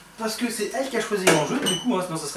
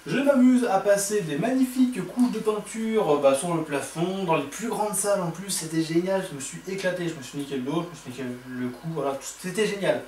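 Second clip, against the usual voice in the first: narrator voice. Pretend. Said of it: "Je prends ma voix de narrateur".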